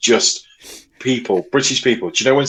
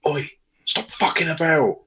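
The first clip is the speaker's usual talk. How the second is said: mock telling off; 5 semitones higher, 4 dB quieter than usual. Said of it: "just lean forward and just say".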